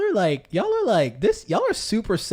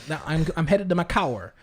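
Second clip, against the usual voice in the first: mock Southern "cower". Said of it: "It's like".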